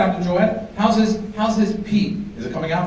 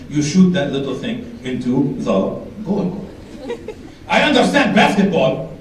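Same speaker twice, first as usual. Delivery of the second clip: put-on Arab dad accent; 7 semitones lower, 3 dB quieter than usual. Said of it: "He goes".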